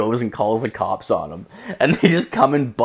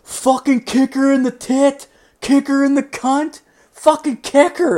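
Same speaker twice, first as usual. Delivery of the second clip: very high, loud mock egging-on; squealed, hammed-up drunken heckling; half-drunk buddy; 5 dB louder than usual. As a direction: imitate a tipsy friend cheering on a fight. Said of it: "like, half in the bag".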